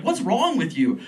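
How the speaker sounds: mock challenge to a friend. Comic retort to friends admiring the hot aunt, mock challenge. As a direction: question thrown outward at someone else, "wrong" leaned on.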